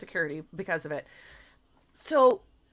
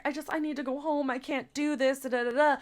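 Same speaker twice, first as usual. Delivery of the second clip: mock crying victim; 4 semitones higher than usual. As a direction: imitate someone pleading through tears. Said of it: "like, crying and, and playing the victim".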